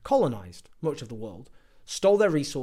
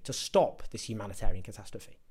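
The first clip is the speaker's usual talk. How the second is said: lower, with stop leaned on in mock disbelief; scornful repeat; 5 semitones lower, 3 dB quieter than usual. Shown as a demonstration. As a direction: echo the phrase, stressing stop with contempt.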